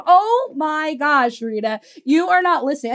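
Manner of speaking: exasperated client. Retold or imitated. Client told to go get a client, exasperated. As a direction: act her fed-up reaction, stretching the opening words.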